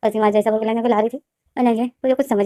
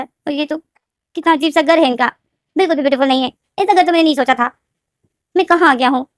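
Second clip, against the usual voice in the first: lightly raised, unimpressed muttering; displeased Wing; 4 semitones higher than usual. Acted. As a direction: sniff at the ugly house. Wing judging the house. (घर देखकर नाक-भौं सिकोड़ता विंग)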